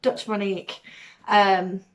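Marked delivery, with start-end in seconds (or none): 0.0-0.8 Monique said mo-NEEK, falling at the end; trying a pronunciation. Shown as a demonstration. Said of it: "can't pronounce it right".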